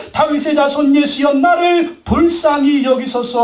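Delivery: stretched, imploring cry; retold plea for mercy, drawn out; crying out harder. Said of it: "더욱 소리 질러". (더욱 간절하게 길게 외치듯)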